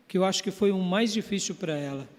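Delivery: ordinary delivery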